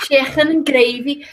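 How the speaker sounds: thick Scouse on a food order. Shown as a demonstration. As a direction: chicken with a throaty Scouse k. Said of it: "what's the most Scouse thing you can say".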